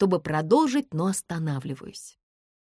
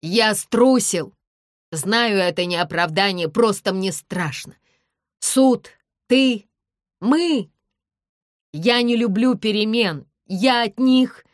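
louder, halting shouted admission; loud confession; 4 semitones higher, 7 dB louder than usual. A narrator's reading. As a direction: shout it out, struggling. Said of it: "продолжает ещё громче".

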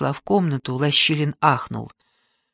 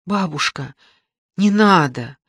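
frightened cry; 3 semitones higher, 4 dB louder than usual. Acted. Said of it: "испуганно крикнула Катька".

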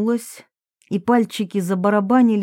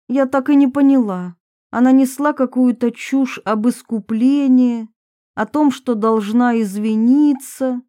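raised pitch, mildly prickly confession; lightly voiced defensive Varvara; 4 semitones higher, 3 dB louder than usual. Varvara admits a youthful film to her accusers, mildly defensive. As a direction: confess with a touch of defiance. Varvara tells of Olga's plea.

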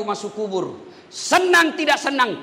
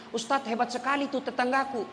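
gossiping mother; 8 dB quieter than usual. Retold or imitated. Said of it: "ada ibu-ibu bisa begini".

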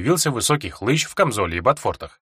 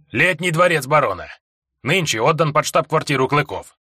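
gruff gravelly dwarf voice; 4 semitones higher than usual. Acted. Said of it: "пояснил гном".

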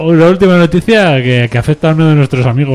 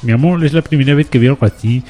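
mock Cuban accent. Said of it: "no me sale el cubano".

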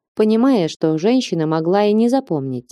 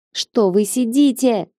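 put-on girl's mild cry; 5 semitones higher, slower than usual. A narrator's reading. Girl appealing to onlookers during a fight, crying out. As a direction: cry out high-pitched and slow, reproachful. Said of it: "закричала девчонка".

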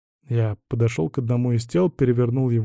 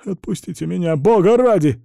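higher, rising to a loud whine; whimpering plea; 6 semitones higher, 4 dB louder than usual. A narrator's reading. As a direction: beg to be let go, whining. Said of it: "захныкал страж порядка". (хнычет и умоляет, выше)

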